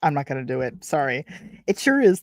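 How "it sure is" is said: higher-pitched, lightly attempted British; British accent. Reader voicing the man answering the door, light British accent. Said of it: "said with a British accent".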